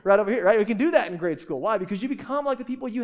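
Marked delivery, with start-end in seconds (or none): 0.0-0.4 lightly voiced cheery teacher; a hint of a chirpy teacher moving a pupil; teacher reseating a kid. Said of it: "they're like".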